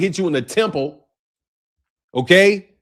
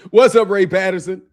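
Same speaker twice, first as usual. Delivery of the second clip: lightly caricatured comedian's greeting; boxing commentator caricature. Acted. Streamer greeting Ray Patterson as the boxing comedian, light caricature. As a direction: greet him as the commentator would, lightly exaggerated. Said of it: "that dude really talks like that".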